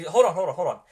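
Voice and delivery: calling out hold on, hold on over the player; loud hold on. Real, not acted. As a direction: raise the voice to stop the interruption. GM cuts off eager player.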